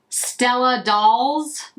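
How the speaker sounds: Stella Dolls in a deliberately bad American accent, slow; slow, flat American reading of Stella Dolls; terrible American accent. Shown as a demonstration. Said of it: "I am doing the American terrible accent of it".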